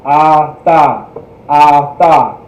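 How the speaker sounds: atha said with an open ah, ah-tha; teacher modelling atha; model pronunciation. Shown as a demonstration. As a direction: stress the ah in atha, open and clear. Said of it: "Remember that ah sound".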